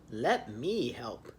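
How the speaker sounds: low, slow moose offer; a hint of a big gentle moose; lightly voiced moose. Moose offers to help, low and slow. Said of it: "he says".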